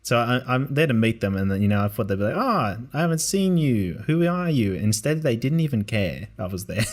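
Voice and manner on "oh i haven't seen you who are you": higher, drawn-out eager welcome; eager greeting. Acted. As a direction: imitate a curious kid meeting family. Imagined excited greeting from young relatives.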